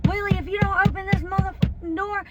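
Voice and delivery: high, shouting through the door; furious dealer yelling from outside; angry yelling. Retold or imitated. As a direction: bellow it like you're pounding the door.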